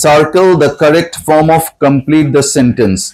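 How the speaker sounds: very slow, careful classroom reading; slow dictation. Shown as a demonstration. Teacher reading the worksheet instruction to students, slowly. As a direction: spell it out slowly for the pupils.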